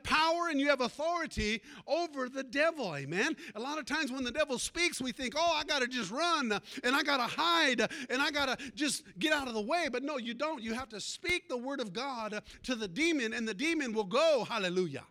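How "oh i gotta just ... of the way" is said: hammed-up frantic rush to flee; louder, playing the scared believer; mock panic. Preacher mimicking a scared believer, mock panic. Preacher acts out fearful thinking.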